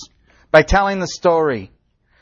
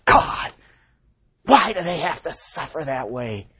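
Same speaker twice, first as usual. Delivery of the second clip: anguished prayer. Retold or imitated. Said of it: "my heart just cries out and says".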